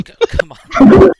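high squeaky strained plea, slow; high squeaky coaxing. Retold or imitated. Drunk friend coaxing a screaming three-year-old, squeaky and high. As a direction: squeak it out to soothe a screaming kid. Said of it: "Olo would go".

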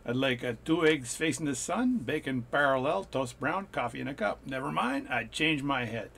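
playful put-on French accent; comic French-accented English. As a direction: order breakfast in a mock French accent. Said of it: "That's my French breakfast".

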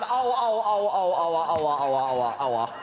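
loud comic ouch cries falling in pitch; hammed-up ouch cries. Critic hams up pain over the bad rhyme, loud and falling.

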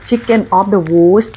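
"chicken of the woods" with a clearly sounded S ending "woods"; careful final S. Shown as a demonstration. Showing viewers how the mushroom's name must sound, careful final S. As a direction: draw out "chicken of the woods", finishing on an audible S. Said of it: "ต้องออกเสียงว่า".

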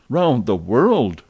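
stunned, drawn-out exclamation; astonished cry. Acted. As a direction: let it land in disbelief. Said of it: "cried Fix".

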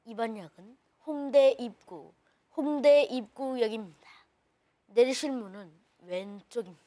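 calm recorded station announcement; subway announcer impression. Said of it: "지하철 그 안내방송 성대모사를". (지하철 안내방송 성대모사)

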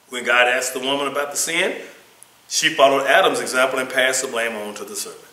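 emphatic, projected scripture and lesson reading; reading aloud. Acted. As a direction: read it out firmly, phrase by phrase. Reads lesson text aloud.

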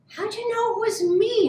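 high-pitched moan of dismay; moaning turkey. A narrator's reading. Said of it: "moaned Turkey".

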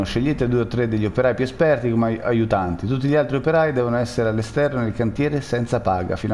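fast, official announcement read; notice read-out. Acted. Player reading a found note aloud, official tone. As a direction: read the notice like a site memo.

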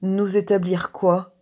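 slow, loud, worried question; anxious and laboured. A narrator's reading. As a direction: ask it in slow alarm. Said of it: "Il devint inquiet".

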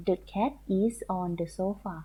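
slow, word by word English reading; slow model sentence. Shown as a demonstration. Teacher reading the answer to pupils, slow word by word. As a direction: read the sentence slowly for the children to copy. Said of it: "เขาก็เอาเป็นคำว่า".

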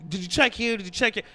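lightly voiced exasperated mom questioning; mom scolding. Mom grilling her kid about lost shoes, mock scolding. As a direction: quote a mom's rapid-fire nagging, mildly acted. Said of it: "She does the mom thing".

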